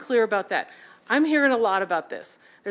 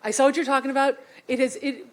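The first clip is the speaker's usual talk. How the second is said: louder mom voice, a touch sharp; a hint of an insistent mom; 3 semitones higher, 3 dB louder than usual. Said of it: "I'm doing my mom voice here".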